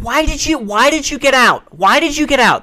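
high, loud accusing nag; scolding mom. Retold or imitated. Mom scolding her son for leaving the bus. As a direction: mom demanding why he got off. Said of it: "My mom would be like".

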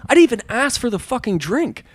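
high-pitched mock indignation; flipping out. Friend protesting the unasked-for drink, mock outrage. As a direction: protest like an outraged customer, retold. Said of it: "supposedly he flipped out saying".

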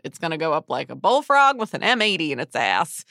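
lightly put-on bad Southern accent; terrible Southern accent. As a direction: imitate a Louisiana guy with a bad Southern accent. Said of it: "apologies for that terrible Southern accent".

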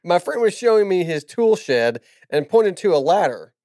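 giggling through the punchline; barely holding back laughter; cracking up mid-line. Real, not acted. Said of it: "You can do a dramatic reading of that".

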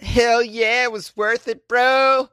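high, loud bro-style reply; triumphant excitement. Acted. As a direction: belt it out high, proud of it. Acting the man's answer.

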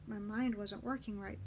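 ordinary delivery, nothing marked

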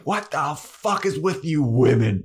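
imitating a ranting vampire; lightly hammed-up outrage; mock angry rant. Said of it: "he just starts fucking screaming and he is pissed".

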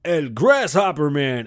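slow, drawn-out trailer announcer; mock announcer. Vlogger announcing his own knockoff superhero show. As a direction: announce it like a movie title. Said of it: "I'll be like".

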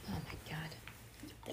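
slow, drawn-out whisper; whispered despair. Real, not acted. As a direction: breathe it out, exasperated. Reader exasperated at child again.

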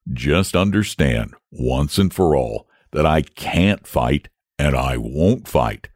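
a calm beast refusing firmly; solemn dragon voice. Acted. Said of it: "said the dragon solemnly".

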